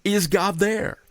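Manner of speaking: "Is God there?" lifted high as a question; rising plea. Retold or imitated. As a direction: voice the people's doubt lightly. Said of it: "the Israelites were asking".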